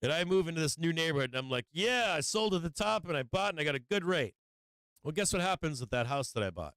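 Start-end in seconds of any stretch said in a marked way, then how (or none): 1.7-4.3 lightly acted high-pitched boast; mock self-congratulation. Seller boasting in his new neighborhood, mock self-congratulation. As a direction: pretend to be pleased with your own deal.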